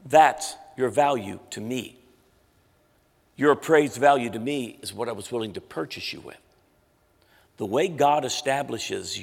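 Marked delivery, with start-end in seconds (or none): 0.0-6.4 Holy Spirit speaking to his heart; gentle divine voice. Retold or imitated. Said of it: "here's what the Holy Spirit spoke".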